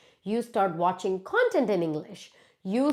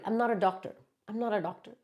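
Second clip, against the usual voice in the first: softer, deadpan; quiet dry aside; 6 dB quieter, much faster than usual. Real, not acted. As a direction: mutter it, half to yourself. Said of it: "apologetic refusal".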